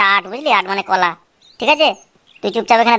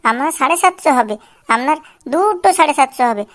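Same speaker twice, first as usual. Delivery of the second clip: whining beggar; 2 semitones higher than usual. Acted. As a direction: wheedle coins from passers-by. Begging continues.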